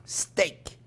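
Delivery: slow, breathy stage whisper of the dish name; dramatic whisper. Acted. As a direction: whisper it slowly like a big secret reveal.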